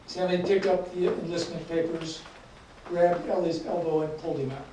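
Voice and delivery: deliberate, emphatic book reading with voiced dialogue; measured author's reading, pausing between phrases; story narration. A narrator's reading. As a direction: read the story aloud, leaning into the dialogue. Reads a story aloud to audience.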